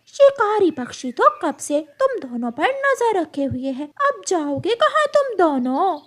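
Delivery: high taunting eagle voice; menacing hawk. Acted. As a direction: gloat over trapped prey.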